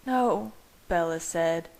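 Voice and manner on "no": tearful woman. A narrator's reading. Bella protesting in tears.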